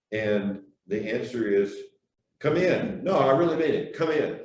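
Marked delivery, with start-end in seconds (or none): 2.4-3.0 a light, casual welcoming Come in, slightly higher; just open the door and say come in, easy; friendly Newfoundlander. Retold or imitated. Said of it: "I'll be the Newfoundlander". 3.0-4.4 a touch higher and louder, laughing through "Come in"; insistent Newfoundlander. Retold or imitated. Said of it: "I'll be the Newfoundlander".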